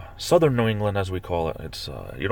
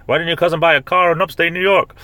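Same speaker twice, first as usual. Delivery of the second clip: high, loud disbelief; incredulous question; 9 semitones higher, 5 dB louder than usual. Real, not acted. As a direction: ask it loudly, baffled by the cousin. Incredulous about cousin's car purchase.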